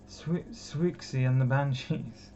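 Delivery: "Swixie" said slowly as swick-see, sounding out the name; stumbling pronunciation. Real, not acted. Apologising to the band while fumbling "Swixie", slowly. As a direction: sound out "Swixie" carefully, unsure. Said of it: "I can't pronounce that name".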